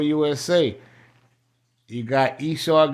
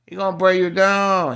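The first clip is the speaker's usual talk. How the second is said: fervent preaching; 6 semitones higher, 5 dB louder than usual. Acted. Preacher rising to fervor.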